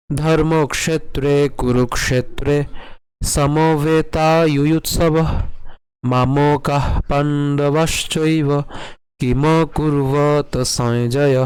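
slow, sustained Sanskrit recitation; verse recitation. Shown as a demonstration. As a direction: stretch each syllable of the shloka. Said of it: "শুরু করে করি কেমন হবে?".

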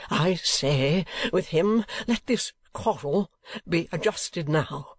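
high, ringing declaration to the room; defiant proclamation. A narrator's reading. Young lord to everyone in the gaming room, defiant. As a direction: announce it boldly, then drop to a slow, hushed threat.

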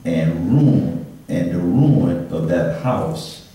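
measured, solemn Bible reading; solemn reading from the Gospel of Luke; scripture reading. Acted. Reads scripture aloud.

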